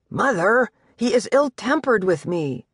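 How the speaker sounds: gently voiced son pleading; lightly voiced anxious boy. Son complains to mother.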